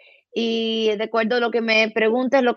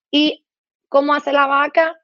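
put-on raised, playful voice asking a toddler; child-directed question; 5 semitones higher than usual. Shown as a demonstration. Therapist asks a child what the cow says, high and playful. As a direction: coax a little one to answer.

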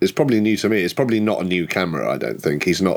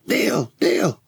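calling out; 14 semitones higher than usual. Acted. Calling out for missing friend.

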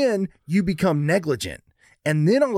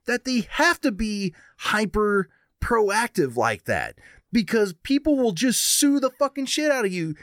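ranting; 5 semitones higher than usual. Real, not acted. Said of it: "you stopped the rant".

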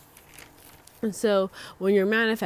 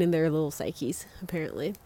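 breathy whispered aside; whispering; 3 semitones lower, 6 dB quieter than usual. Real, not acted. Aside about Virgos.

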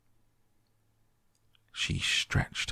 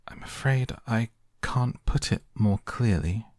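polite; 5 semitones higher than usual. Acted. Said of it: "very politely".

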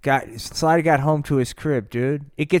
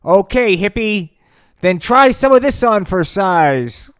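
mock tough taunt; 4 semitones higher, 8 dB louder than usual. Hero's taunt in a story.

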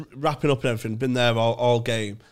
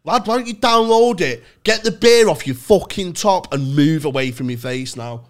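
imagined snap; 5 semitones higher, 6 dB louder than usual. Retold or imitated. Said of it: "I don't normally snap".

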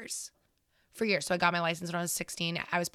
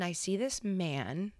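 whisper; 5 dB quieter, slower than usual. Real, not acted. Building suspense in scary story.

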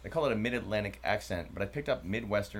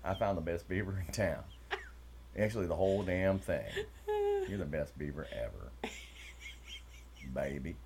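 put-on Southern accent; 2 semitones lower than usual.

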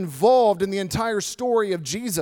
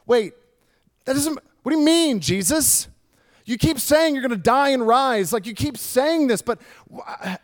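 confused disbelief; 3 semitones higher than usual. Retold or imitated. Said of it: "such confusion among the disciples".

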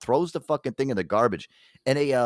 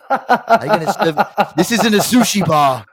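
laughing chef rant; 5 semitones higher, 6 dB louder than usual. Pretend.

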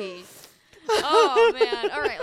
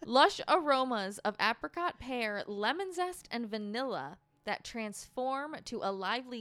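label read-aloud. Real, not acted. Reads wine label aloud.

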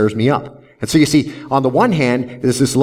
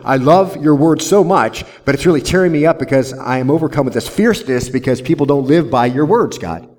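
voicing David; 2 semitones higher than usual. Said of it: "David says".

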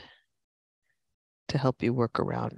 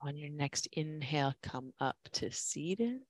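quiet; 10 dB quieter than usual. Real, not acted. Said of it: "I'll be quiet".

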